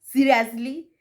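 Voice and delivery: mildly indignant, slow and emphatic; a touch of mock outrage; retold anger. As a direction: act out an annoyed complaint, word by word. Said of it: "Because Shiro was mad".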